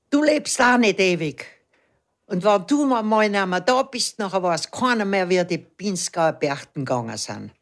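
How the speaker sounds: a touch of anger, slightly pushed, recalling a shout; mild retold angry yell. Stung by a wasp, she snaps at the old dancer in a mild retold yell. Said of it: "zornig hab ich ihm ins Gesicht geschrien".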